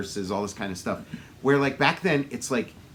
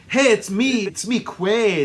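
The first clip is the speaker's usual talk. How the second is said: higher, louder mock Austrian accent; Schwarzenegger; 6 semitones higher, 5 dB louder, slower than usual. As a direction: play it big with a comic Austrian accent. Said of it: "he talks the way he does".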